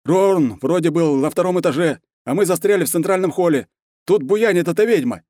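gasping under fire; winded soldier on the radio; breathless soldier. A narrator's reading. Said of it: "задыхающийся голос".

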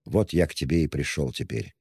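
usual speaking voice

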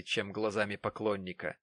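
plain reading voice

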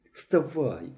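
тихий шепіт. A narrator's reading. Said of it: "шепотів Мишко".

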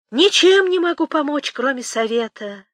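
high, loud, teasing lilt; playfully mocking. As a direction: sing it out with a sly jeer, then ease down. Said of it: "с неожиданной игривостью в голосе, с этакой издёвочкой".

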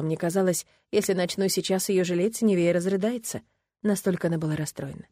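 usual speaking voice

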